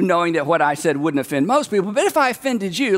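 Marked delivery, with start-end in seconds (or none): 1.9-3.0 a pat on the head in words; soothing but condescending; like a little side hug; patronizing apology. Retold or imitated. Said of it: "a little pat on the head".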